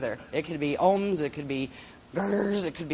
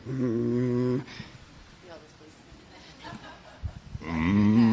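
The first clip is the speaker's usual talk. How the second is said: low hum; 5 semitones lower than usual. Shown as a demonstration. Teacher demonstrating low hums for the class. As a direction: hum deep in the chest. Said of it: "Low hums and leg drums".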